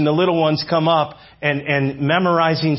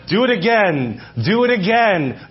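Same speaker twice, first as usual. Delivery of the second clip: imitated coach calling out orders, pitched up; demanding coach; 6 semitones higher than usual. Gymnastics coach to young gymnasts in training, demanding. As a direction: drill the command at the young gymnasts. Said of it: "he would make this statement".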